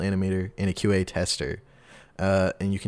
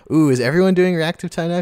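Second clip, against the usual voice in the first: surprised; 7 semitones higher, 7 dB louder than usual. Real, not acted. Surprised by the battle system.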